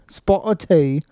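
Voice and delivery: amateur British "Spot of tea"; British accent attempt. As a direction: try a British accent on the phrase. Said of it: "give me a British accent".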